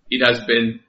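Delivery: put-on light, halting Russian accent. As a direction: start the line in a Russian accent. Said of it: "I can't do a Russian accent".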